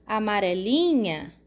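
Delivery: "amarelinha" with the LI leaned on and held; stress on LI. Shown as a demonstration. Teacher showing pupils the strong syllable, "amarelinha" stressed on LI. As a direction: put the most force on "li" in "amarelinha". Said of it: "aonde a gente bota a maior força".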